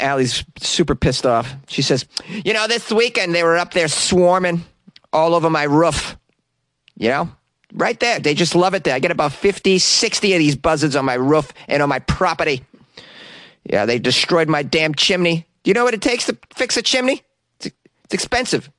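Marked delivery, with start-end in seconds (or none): 2.4-15.5 put-on Boston accent. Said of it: "Why do I have a Boston accent". 15.6-18.7 indignant. Acted. Indignant resident ranting.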